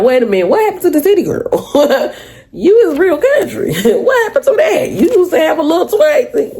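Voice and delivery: high, laughing tease; laughing mock complaint. Quoting a new boyfriend teasing her country side, laughing. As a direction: poke fun while laughing. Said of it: "you be like".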